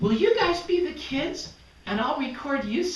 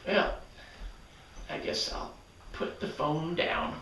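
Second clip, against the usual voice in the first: monster voice; 13 semitones lower, 10 dB quieter than usual. Acted. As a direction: voice a big lazy monster. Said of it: "and the monster said".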